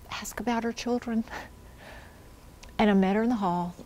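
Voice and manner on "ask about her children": soft, hushed quote of a whispered prompt; retold whisper. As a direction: drop the volume as if passing on a whisper. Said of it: "And he whispered".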